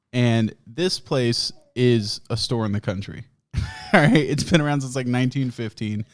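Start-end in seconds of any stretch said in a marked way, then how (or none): 0.1-3.2 slow, each word weighted; slow emphatic stress. Shown as a demonstration. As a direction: spell out "this place is a store in the country" slowly. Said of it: "two different types of country stores".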